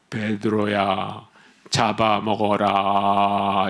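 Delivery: very low, drawn-out booming God voice; God impression. Preacher mimicking God commanding Peter, very low and slow. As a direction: stretch each syllable in a deep voice of heaven. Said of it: "제가 이 성대모사로 좀 해드릴게요".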